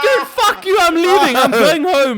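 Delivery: very high, loud laughing rage; furious yell. Retold or imitated. Telling the buyer off before leaving, furious yell. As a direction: scream it, done with him.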